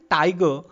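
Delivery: "tiger" with an emphatic "ti" and weak "ger"; stress on first syllable. Shown as a demonstration. Lecturer showing trochee to students, "tiger" stressed on its first part. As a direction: lean on the first half of "tiger". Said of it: "I emphasis or I stress the first part".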